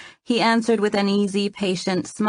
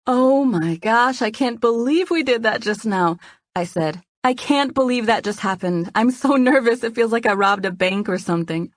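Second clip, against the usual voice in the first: excited; 5 semitones higher than usual. Acted. Nervous excited after the prank.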